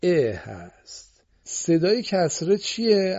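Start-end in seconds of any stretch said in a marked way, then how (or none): 0.0-0.3 ا drawn out long as a clear "e"; kasra vowel sound. Shown as a demonstration. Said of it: "حرکت کسره که صداش ا". (ا را کشیده و واضح به صورت «ا» بگو)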